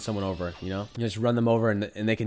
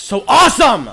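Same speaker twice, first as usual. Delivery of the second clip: mock boast; 11 semitones higher, 11 dB louder than usual. Boasting outburst.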